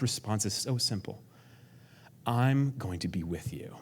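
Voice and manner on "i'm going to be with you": gentle promise. Acted. God's promise, repeated, fading.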